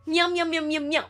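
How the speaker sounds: high sing-song meowing; cat meows. Pretend. Streamer teasing the audience with high kitty meows. Mocking people as kitty cats.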